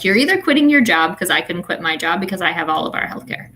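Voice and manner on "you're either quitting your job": mild retold outburst. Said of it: "in my hormonal state was like".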